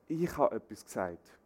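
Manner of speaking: "Ich" leads, the rest falls away; stress on ICH. Shown as a demonstration. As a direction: put the weight on "Ich". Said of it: "Die Betonung liegt auf der Ich-Botschaft". („Ich“ betont, Rest abfallend)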